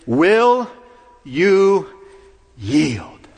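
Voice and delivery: firm, loud demand to surrender; a commanding call at the gate; Jesus' question. Retold or imitated. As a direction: ask for surrender with authority. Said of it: "And his question is".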